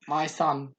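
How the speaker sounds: lightly done impression of a boxing father; a hint of an impressionist's proud boxer; Chris Eubank Senior. Retelling a comic's impressions video, light Eubank impression. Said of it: "You actually do a really good Chris Eubank".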